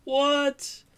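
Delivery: high, loud shocked "what"; astonished. Real, not acted. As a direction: yelp it in real disbelief. Startled reaction to dice roll.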